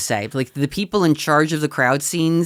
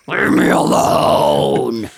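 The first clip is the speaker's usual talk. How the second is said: slow, low, drawn-out shout; mock shout; 5 semitones lower, 4 dB louder, much slower than usual. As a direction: groan it out, slow and loud. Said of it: "Meanwhile, I'm like".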